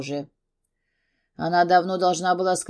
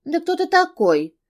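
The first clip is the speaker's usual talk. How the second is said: high, loud scream; 11 semitones higher, 5 dB louder than usual. A narrator's reading. Drunk girl screaming at her boss, high and loud. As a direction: hurl it at him in drunken fury. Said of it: "закричала".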